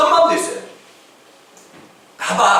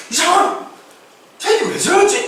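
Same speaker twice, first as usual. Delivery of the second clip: higher-pitched, startled puzzlement; mock bewilderment; 7 semitones higher, slower than usual. Jonah shocked that the people repent, mock bewilderment. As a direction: act out being taken aback. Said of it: "이런 마음이 갑자기 든다".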